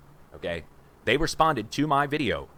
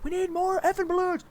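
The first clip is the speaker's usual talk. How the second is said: frantic scream, much higher and strained; retold mic scream. Man screaming into a live mic at a campaign event, frantic yell. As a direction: yell for more balloons like everything's going wrong. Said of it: "The guy's screaming into the microphone".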